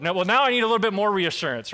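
needy haggling with God; mock pleading.

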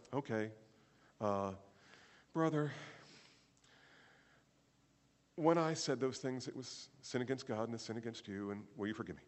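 put-on grudging child's apology, halting then rattled off; mock a reluctant kid saying sorry; insincere apology. Child made to apologize to brother, insincere apology. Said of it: "do those words and not mean it".

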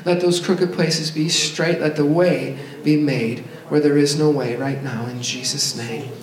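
steady pastoral prayer voice. Acted. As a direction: pray over the people, earnest and even. Pastor leads congregation in prayer.

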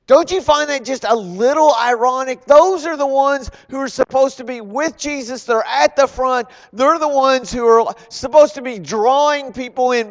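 usual speaking voice

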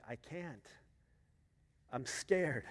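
retold timid refusal; scared child. Daughter refusing, frightened.

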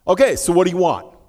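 brusque and fast, almost rude; curt impatience. Retold or imitated. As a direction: rush it out, a busy man cutting to the point. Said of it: "not rude, but just kinda almost on the verge".

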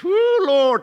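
high, loud, hammed-up woo; a gloating spouse cheering too loudly; mock gleeful whoop. Spouse mocking partner in church, hammed-up loud woo.

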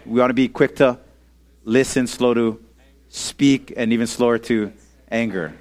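verse broken into measured chunks; leading recitation. Shown as a demonstration. Preacher gets all the guys to say the verse, measured recitation. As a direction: lead the group through it phrase by phrase. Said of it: "let's say it".

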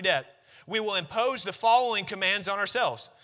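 measured, formal reading of Bible verses aloud; scripture reading. Acted. Pastor reading scripture to the congregation, formal and measured. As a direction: read the covenant text steadily to the church.

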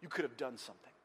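soft, understated retold plea; retold crying out. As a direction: quietly voice their hurt, without crying out. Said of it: "they're crying out saying".

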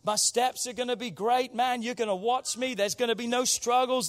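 animated, driving sermon delivery; fervent preaching. Real, not acted. Preacher mocking hopes of an easy life, fervent preaching. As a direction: preach it with rising insistence.

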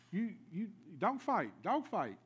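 halting Hispanic-accented broken English, lightly imitated. Hispanic man asks about the dog shirt, imitated broken English. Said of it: "His English was even more broken".

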